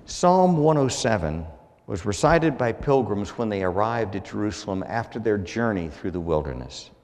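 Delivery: normal talking voice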